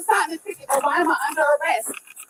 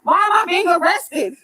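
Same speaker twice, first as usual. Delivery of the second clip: desperate shouting; 2 semitones higher than usual. Real, not acted. Repeated pleas during arrest.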